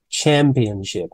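slow clear demo. Shown as a demonstration.

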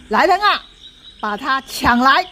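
loud order to the soldiers; mock general's command; commanding shout. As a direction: call the troops to grab him.

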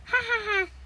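high, spoken ha-ha-ha; mock laughter. Girl passing by mocks boys' ballet, laughing. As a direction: voice a pretend cartoon laugh.

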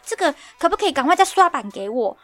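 hammed-up panic over an urgent order; mock frantic manager. Manager begging the pattern maker for a new pattern, mock frantic. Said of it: "他就开始很紧张".

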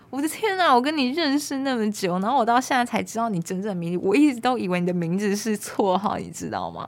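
a light imitation of an amazed friend; astonished friend. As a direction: retell the friend's shock. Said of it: "然后他也非常惊讶".

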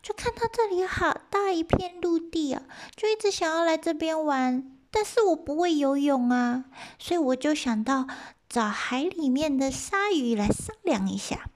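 high, small rabbit voice; little rabbit voice. Acted. Rabbit explains to the eighty gods in a high voice. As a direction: speak up as the tiny rabbit. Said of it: "他说".

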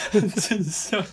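hiccuping between words; with hiccups. Real, not acted. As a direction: talk through hiccups. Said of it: "又打嗝".

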